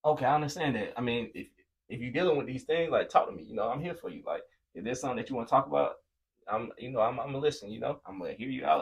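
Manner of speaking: gentle, reassuring offer to listen; understanding support. Retold or imitated. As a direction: show the roommate you are there for him. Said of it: "They be like".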